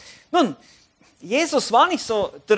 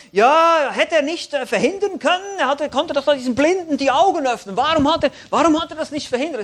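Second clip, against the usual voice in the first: higher, complaining onlookers; critical, uncomprehending; 6 semitones higher, 4 dB louder than usual. Acted. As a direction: protest in a raised mock-reproachful voice. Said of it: "Es ist Kritik, es ist Unverstand". (vorwurfsvoll nörgelnd, mit erhobener Stimme)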